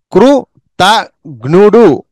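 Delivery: కృతజ్ఞుడు said very slowly, syllable by syllable; slow syllable drill. Shown as a demonstration. Teacher breaking a hard word apart for pupils. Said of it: "syllable drill".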